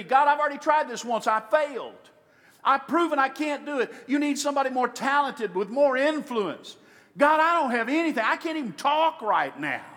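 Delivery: whiny pleading Moses. Acted. Moses pleads his excuses to God.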